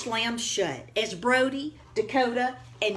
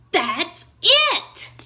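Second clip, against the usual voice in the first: higher and louder, thrilled discovery; eureka; 9 semitones higher, 8 dB louder than usual. Acted. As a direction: burst out with the idea. Max finds the missing herb.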